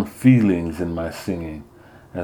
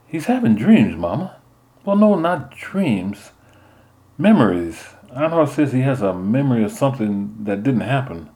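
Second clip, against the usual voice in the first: put-on higher, earnest teen boy; young boy Sha; 5 semitones higher than usual. Son explaining his friend's dreams to Mama, earnestly. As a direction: play the worried son, pitched up.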